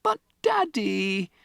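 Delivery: put-on high, slow child's plea; pleading girl. Matilda appealing to her father, high and slow. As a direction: try to get a word in. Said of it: "Matilda began".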